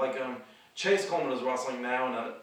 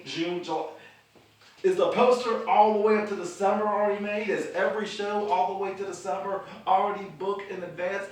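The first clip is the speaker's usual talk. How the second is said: rapid-fire worried questions, pitched higher and louder; higher, louder nervous rambling; overthinking out loud; 4 semitones higher, 3 dB louder than usual. Real, not acted. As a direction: spiral through the questions as the worry grows. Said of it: "I am overthinking this".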